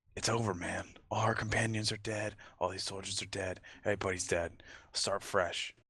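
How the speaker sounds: whispered voice. A character urges Morky to get out with him: whispering. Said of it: "I'm going to whisper".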